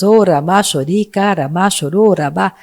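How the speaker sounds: brief glossolalia burst; speaking in tongues. Real, not acted. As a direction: pray in tongues mid-sermon. Preacher prays in tongues. (falando em línguas)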